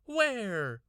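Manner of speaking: high, loud eager cry; little brother crying out, excited; cried out. A narrator's reading. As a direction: shoot the question out. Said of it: "Randy cried".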